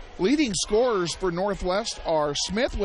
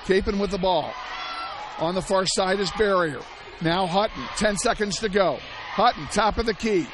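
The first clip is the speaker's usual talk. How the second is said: tense play-by-play. Real, not acted. Radio announcer calling the final possession to fans, rising urgency. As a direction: build the tension on each pass.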